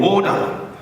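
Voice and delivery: high mock shout of order; imitating the Speaker calling order; yelling order. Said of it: "And yelling".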